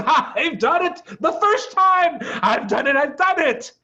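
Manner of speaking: high, loud gleeful shouting; excited shriek. A narrator's reading. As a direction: crow over the win, over and over. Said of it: "a shriek of excitement".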